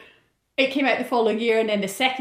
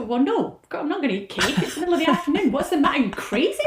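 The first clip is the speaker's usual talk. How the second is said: scoffing French woman; 6 semitones higher than usual. Retold or imitated. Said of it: "French women just go".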